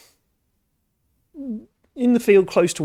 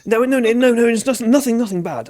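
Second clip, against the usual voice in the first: high, flustered farmer voice turning wizardish; wizardly farmer; 7 semitones higher than usual. Acted. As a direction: hurry to reassure, a touch of old wizard. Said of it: "slowly becoming more and more like a wizard".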